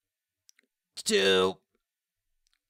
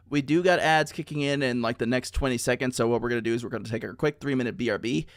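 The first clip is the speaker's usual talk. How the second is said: panting after squats, out of breath. Real, not acted. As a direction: talk while catching your breath. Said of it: "Let me catch my breath".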